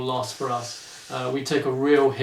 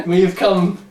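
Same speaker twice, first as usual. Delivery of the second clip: mock grand announcement; 2 semitones higher than usual. Podcast host unveiling three books, mock courtroom grandeur. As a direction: present it like a pompous barrister.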